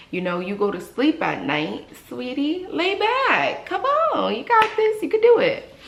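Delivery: high, rising sugary coaxing to a patient; sweet coaxing. Retold or imitated. Hygienist coaxing a reluctant patient to lie back, sugary high. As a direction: coax the patient back like a baby.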